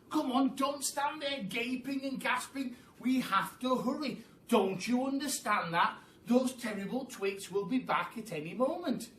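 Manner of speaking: high, pushy calls to hurry; impatient urging. Acted. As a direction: nag them to get on with it. Mugglewump urging, pies coming.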